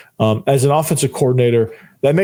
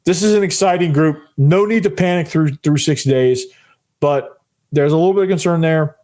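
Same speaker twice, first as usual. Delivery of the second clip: hoarse, worn-out voice; rasping through a voice that's nearly gone; losing voice; 3 semitones higher than usual. Real, not acted. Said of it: "this is all the voice I have left".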